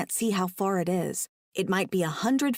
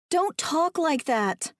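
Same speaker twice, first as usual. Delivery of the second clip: higher, slow, urging plea; encouraging; 8 semitones higher, slower than usual. A narrator's reading. Woman to trapped man losing hope, encouraging. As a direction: coax him not to give up. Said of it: "I tell him encouragingly".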